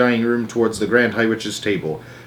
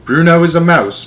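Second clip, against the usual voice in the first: calm; 6 semitones higher, 6 dB louder than usual. Acted. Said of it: "calm as ever".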